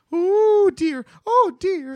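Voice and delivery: high, loud flustered cry; panicked little lady voice; flustered Miss Cuttenclip. Retold or imitated. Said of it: "Miss Cuttenclip is like".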